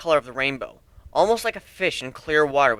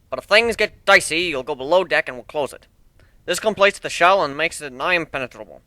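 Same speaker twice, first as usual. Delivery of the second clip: lightly voiced proud shipbuilder; 3 semitones higher, 4 dB louder than usual. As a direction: show off your ship like a proud craftsman. Steelhorn gives the ship tour.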